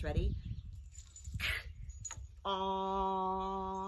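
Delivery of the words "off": slowly. Shown as a demonstration. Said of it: "let's say it slowly".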